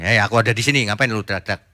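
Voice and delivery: a hint of God saying he is right here; God answering. Preacher voicing God telling worshippers to stop shouting, lightly and casually. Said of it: "Tuhan bilang gini".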